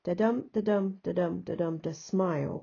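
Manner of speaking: "da-dum" beats landing on "smile"; light "da", strong "dum", finish on "smile"; iambic rhythm. Shown as a demonstration. Teacher previewing her poem line, iambic rhythm. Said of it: "my lines end up like this".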